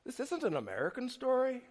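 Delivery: a half-hearted Irish lilt, lightly voiced; weak Irish accent. Pastor voicing Brad Pitt's character to Harrison Ford, weak Irish accent. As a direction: try an Irish accent and admit it's a poor one. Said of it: "I don't do a good accent".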